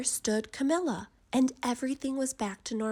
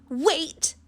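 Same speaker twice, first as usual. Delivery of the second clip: much higher, loud call; urgent cry; 7 semitones higher, 7 dB louder than usual. A narrator's reading. Camilla calls the old woman back, high and loud. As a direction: cry out to stop her leaving. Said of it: "she cried".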